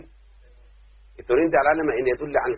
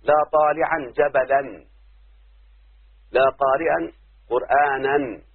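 each word read slowly and clearly; slow examples; much slower than usual. Shown as a demonstration. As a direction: dictate the phrases to the class. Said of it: "أو تكون منصوبة".

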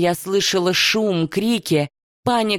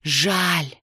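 godlike voice; 2 semitones lower than usual. A narrator's reading. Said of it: "Донёсся рокот прибоя, вой ветра".

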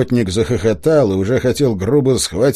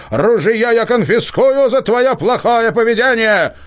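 high, slow, ringing command of a forest spirit; ringing booming voice; 12 semitones higher, 5 dB louder than usual. A narrator's reading. Spirit voice from the hollow commanding the hunter, ringing and rolling. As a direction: boom it out like a hidden spirit.

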